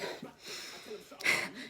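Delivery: soft voiceless mock laugh; quiet huff in place of his words; imitated breathy scoff. Imitates the man's dismissive reaction.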